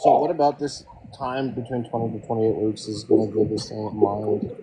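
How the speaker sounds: muffled voice, as if through a hand. Real, not acted. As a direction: speak with your mouth covered. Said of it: "Sorry, you're really muffled".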